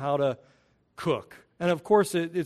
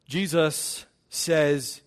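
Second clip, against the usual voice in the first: slow emphasis; much slower than usual. Shown as a demonstration. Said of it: "And it's emphatic".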